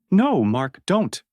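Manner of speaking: high desperate scream. Acted. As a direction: scream it in panic. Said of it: "Claire screamed".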